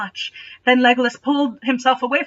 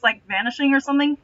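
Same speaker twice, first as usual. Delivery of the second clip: usual speaking voice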